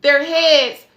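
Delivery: slow, heavy words, emotion rising; real emotion welling up while telling of ancestors; getting emotional. Real, not acted. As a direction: let the feeling slow you down, close to tears. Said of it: "Oh, I'm getting emotional".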